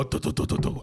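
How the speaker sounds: rapid thudding fall noises; voiceless bumping sounds; imitated tumbling downstairs. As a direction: mimic someone tumbling down stairs. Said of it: "I heard him go".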